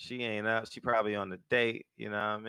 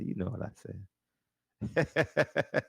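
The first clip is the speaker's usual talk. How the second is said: mumbled trick voice; slower than usual. Retold or imitated. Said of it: "And you say".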